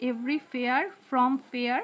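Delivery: very slow, words drawn out; slow syllable reading. Shown as a demonstration. Teacher repeating the phrase slowly for students. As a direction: stretch each syllable. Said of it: "পরেরটাতে চলে যাচ্ছে".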